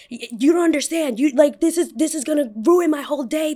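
high-pitched upset customer imitation; whine-free but heated, high protest; mock distraught complaint. Customer upset about his ruined day, acted indignant.

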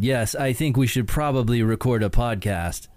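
stiff, lifeless imitation of his AI self; wooden robot voice. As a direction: read it flat like a wooden robot. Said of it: "I was talking like this".

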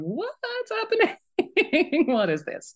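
high, slow, baffled mock question; confused band member. Bandmates wonder what is happening, high baffled question. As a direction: play the lost bandmate, voice up high. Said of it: "standing there going".

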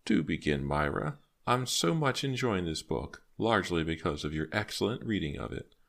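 put-on a touch of a gracious elderly woman; lightly voiced gracious old woman. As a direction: lightly play an old lady giving praise. Old woman praises her reader.

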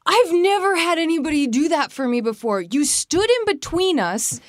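a hint of the friend's relieved thanks; grateful friend. Friend thanking her after the party, mildly voiced. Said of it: "she said".

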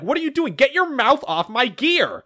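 high, half-hearted mock yell; mock scream. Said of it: "she's screaming at him".

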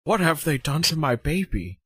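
whiny George Lucas. Retold or imitated. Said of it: "being George Lucas and walking into".

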